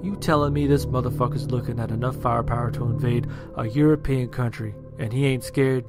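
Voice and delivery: scoffing Marine. Acted. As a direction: scoff at him in disbelief.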